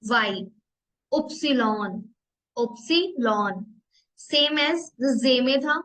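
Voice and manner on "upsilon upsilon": upsilon said slowly as oop-si-lon; German letter name. Shown as a demonstration. Teacher tells students to name letter Y: upsilon, slowly. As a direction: spell out Y as upsilon. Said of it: "तो आप upsilon बोलोगे".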